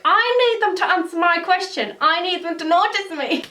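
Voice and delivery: lightly acted desperate fan; desperate fangirl plea. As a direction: beg to be noticed, half-mocking yourself. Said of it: "'cause I was like".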